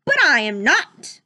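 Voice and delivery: loud call. Acted. Prince bursts into the room, calling loudly. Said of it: "called out the prince".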